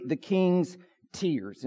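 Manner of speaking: preacher stating a sad sermon point; slow, solemn point. Real, not acted. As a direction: let it land gently and slowly. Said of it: "give them to you".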